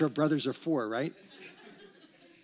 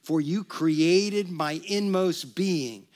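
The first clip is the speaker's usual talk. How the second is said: reciting together; 3 dB louder, slower than usual. Acted. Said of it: "Let's say that together".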